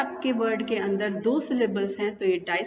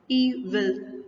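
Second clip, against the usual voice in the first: "इविल" broken as इ, pause, विल; split into syllables; much slower than usual. Shown as a demonstration. Teacher demonstrating disyllabic words, split apart. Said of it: "जो दो syllable है".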